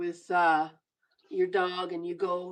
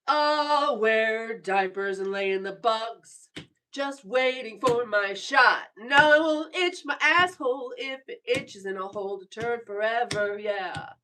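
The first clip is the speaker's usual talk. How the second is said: mock tough sniper; 6 dB louder than usual. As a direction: ham up a swaggering soldier. Mocking a viewer's sniper boast.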